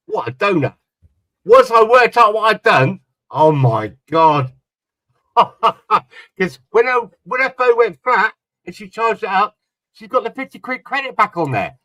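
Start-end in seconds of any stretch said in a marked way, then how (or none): 1.4-4.5 higher, louder dawning realisation, oh my God drawn out slowly; realising. Real, not acted. Man realising his phone trick, excited and slow. 5.0-11.8 laughing. Real, not acted. Man recalling his wife's refilled credit, laughing.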